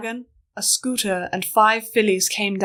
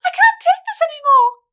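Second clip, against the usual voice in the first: very high, loud desperate scream; a filly snapping under the eagle attack; shout; 6 dB louder than usual. Acted. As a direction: break down and scream it. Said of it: "put her hoofs to her head and shouted".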